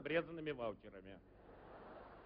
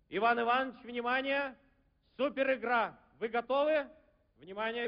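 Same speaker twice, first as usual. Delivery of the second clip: game show host; 4 semitones higher than usual. Pretend.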